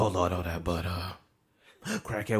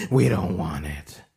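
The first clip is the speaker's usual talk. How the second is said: louder, put-on voice; firmer refusal; 2 semitones lower, 4 dB louder than usual. Refusing the spoiled milk, firm put-on voice. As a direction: shut it down for good.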